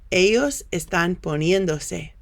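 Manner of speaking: poniéndose stressed on "en", clearly sounded; careful Spanish pronunciation. Shown as a demonstration. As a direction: say poniéndose with stress on the syllable before -dose. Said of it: "that really should be pronounced".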